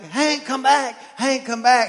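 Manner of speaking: high, loud call to a dog; kids calling the dog. Retold or imitated. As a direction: call the dog back across the yard. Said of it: "they're like".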